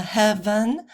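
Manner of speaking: "heaven" stressed on its first syllable; strong "hea-", light "-ven" in "heaven"; trochaic stress. Shown as a demonstration. Teacher adds a trochee example, "heaven" front-stressed. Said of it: "stressed and then unstressed".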